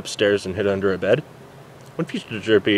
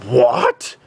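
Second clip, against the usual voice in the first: mild yell; 13 semitones higher, 4 dB louder than usual. Acted. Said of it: "the doctor yelled".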